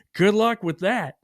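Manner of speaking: slow, dismissive brush-off; imitating a rude coworker's slow dismissal. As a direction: brush him off slowly, don't care. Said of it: "really dismissive".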